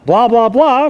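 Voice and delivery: a hint of supermarket announcer; imitating store announcement. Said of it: "they had an overhead page".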